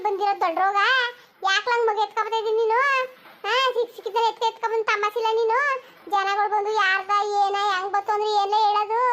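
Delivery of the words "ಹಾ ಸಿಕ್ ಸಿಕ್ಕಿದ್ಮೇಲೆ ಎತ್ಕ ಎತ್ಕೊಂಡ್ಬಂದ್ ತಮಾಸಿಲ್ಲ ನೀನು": scolds through a laugh, quick. Acted. Wife scolding her husband, laughing through it. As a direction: laugh while telling him off.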